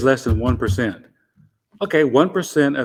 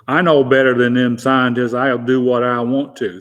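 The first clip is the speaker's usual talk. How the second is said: a light mock Southern accent, a touch louder; 4 dB louder than usual. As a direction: lightly play a know-it-all Southern yokel. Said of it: "that's a Southern accent".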